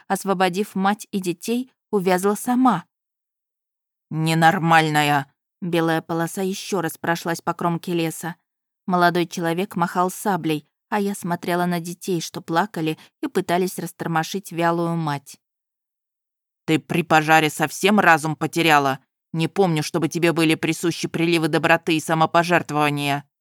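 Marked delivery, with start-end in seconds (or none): 4.1-5.3 put-on a gruff young man calls her crazy; young man's voice. Man snaps at heroine. 16.6-23.3 put-on a sharp young nobleman lecturing her; stern young groom. Narrator voices the groom.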